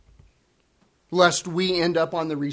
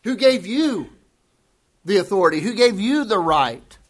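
much higher, put-on offended voice; indignant comeback; 4 semitones higher than usual. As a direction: bristle at someone's presumption. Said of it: "address you in a certain way and you say".

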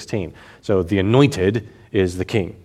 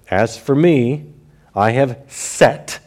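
voicing the Lord; 4 semitones higher, slower than usual. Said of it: "now he's quoting the Lord".

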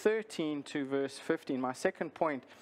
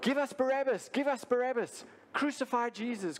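raised crowd chant, calling for release; crowd crying out; 8 semitones higher than usual. Retold or imitated. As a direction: chant it like a frenzied mob. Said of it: "they cried out".

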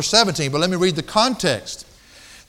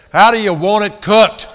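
laughing through quote; 7 dB louder than usual. Retold or imitated. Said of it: "And then he said".

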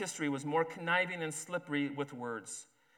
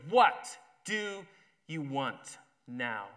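loud angry outburst, then clipped down; exploding; 5 dB louder, much slower than usual. Acted. Judah explodes at Zacchaeus at the door, angry shout. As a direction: blow up at the man at the door. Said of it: "he exploded".

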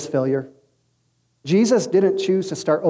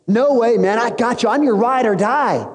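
higher-pitched cocky pledge; acted insistence; 3 semitones higher than usual. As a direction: insist like an overconfident loyal buddy. Peter insists he will stay.

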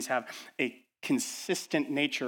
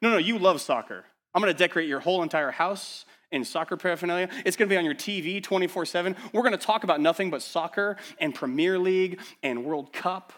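fast, higher and louder, insisting gleefully; pushy excited friend; 5 semitones higher, 3 dB louder than usual. Acted. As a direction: gush over the friend's soccer for them. Acted pushy friend imposing soccer.

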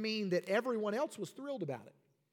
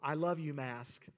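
mock pastor voice; 4 semitones lower than usual. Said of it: "And I say".

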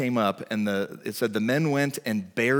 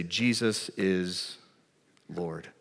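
solemn declaration; 5 semitones lower, 6 dB quieter, much slower than usual. Acted. Christians declaring faith under Caesar.

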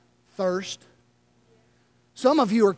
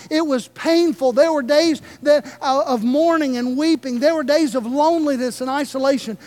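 earnest servant pleading; 3 semitones higher than usual. Retold or imitated. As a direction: pour out a life of hard labor to the Lord, voice raised. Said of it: "stand before the Lord and say".

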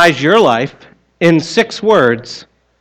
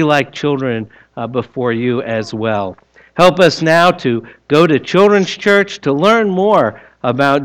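prayer; 2 semitones lower than usual. Acted. Leads children's prayer.

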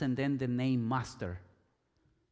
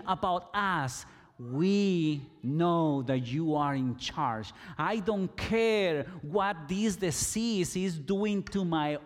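lepers calling out to Jesus, mildly raised; mild retold scream. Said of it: "They were screaming to Jesus".

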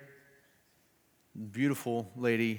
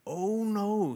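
higher, dismissive oh no; governor; 9 semitones higher than usual. Acted. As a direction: brush off her fear. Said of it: "said the governor".

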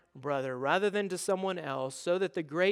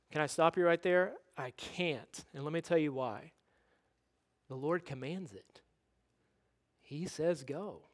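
loving redirection; 6 dB quieter than usual. Acted. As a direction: softly stop them and hold the line. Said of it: "will lovingly redirect us".

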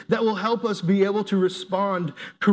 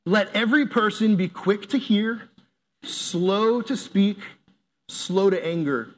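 slow reading. Shown as a demonstration. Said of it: "reading scripture aloud".

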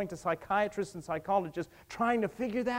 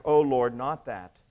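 Cain's anguished plea; 7 semitones lower than usual. Acted. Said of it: "Cain cried back".

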